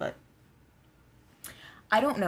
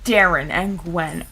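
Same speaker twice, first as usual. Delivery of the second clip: loud, slow stunned exclamation; 4 semitones lower, 11 dB louder, slower than usual. Real, not acted. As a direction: say the names out loud in shock. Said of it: "first loud take".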